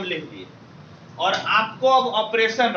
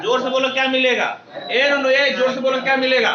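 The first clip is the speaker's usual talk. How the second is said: raised voice, pushing the class to answer loudly; teacher at the board urges silent students to shout the answer, raised voice; loud calling out; 2 semitones higher, 4 dB louder than usual. Real, not acted. Call it out loud, nudging the kids.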